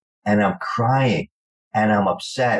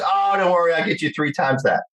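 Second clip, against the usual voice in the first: higher, confident agent voice; a hint of a smug agent promising more; imitating the agent; 8 semitones higher than usual.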